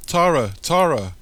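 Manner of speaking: loud, high call for help; high-pitched acted yell. A narrator's reading. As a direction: yell the name out over chaos. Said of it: "Mike yells for Tara".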